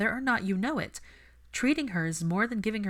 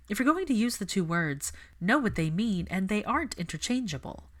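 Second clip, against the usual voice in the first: lecturing retort; 4 semitones higher than usual. Acted. Hermione lecturing Malfoy sharply.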